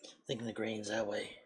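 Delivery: muffled through a mask; talking from inside a mask; inside a rubber mask. Real, not acted. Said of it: "I can't see in this mask".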